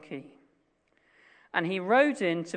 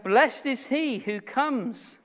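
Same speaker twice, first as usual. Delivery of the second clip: higher, slow proclamation; retold crying out; 5 semitones higher, 4 dB louder, slower than usual. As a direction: call it out slowly, pitch lifted. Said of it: "the psalmist cries out".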